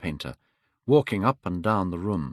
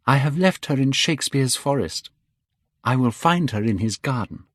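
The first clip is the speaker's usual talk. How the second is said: put-on young Dorian, wistful; 5 semitones higher than usual. Dorian answers Henry.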